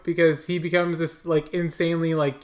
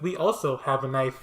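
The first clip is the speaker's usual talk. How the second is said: unfazed computer chip; 4 semitones lower than usual. Acted. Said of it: "And the chip is like".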